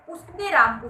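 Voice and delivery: राम pushed out loudly; stress on राम. Shown as a demonstration. Teacher showing how stress changes meaning, stress on राम. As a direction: hit राम hard in the phrase. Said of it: "अलग अलग तरीके से बल देने".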